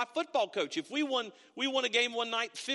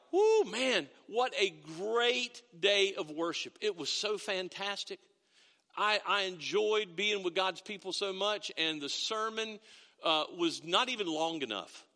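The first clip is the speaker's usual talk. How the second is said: gushing churchgoer; slower than usual. Retold or imitated. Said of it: "and you're like".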